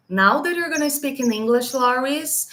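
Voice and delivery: lightly voiced English command to herself; self-command in English. A hint of a firm inner coach telling herself to speak English. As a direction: tell yourself firmly to switch voice. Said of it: "como se eu desse um comando pro meu cérebro".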